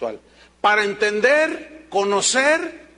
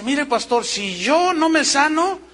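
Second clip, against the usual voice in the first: lightly voiced believer; 7 semitones higher, 4 dB louder, slower than usual. Pastor voices sick convert's faith.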